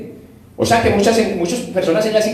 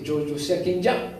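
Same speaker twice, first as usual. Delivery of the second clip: voice of God; 9 dB quieter than usual. Acted. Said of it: "Dios dice".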